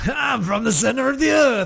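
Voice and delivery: high, shouted goofy character voice; hammed-up silly shout; a singer. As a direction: bellow it as a joke character. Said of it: "in our singer voice".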